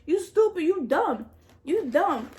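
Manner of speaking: high-pitched mock tearful rant; hammed-up weepy self-reproach; imitated crying self-scolding. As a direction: replay scolding yourself through tears, high. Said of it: "I started crying".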